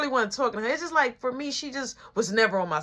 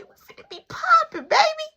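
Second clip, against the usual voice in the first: much higher, laughing hype; hyped laugh; 5 dB louder than usual. Real, not acted. Hyped for the game.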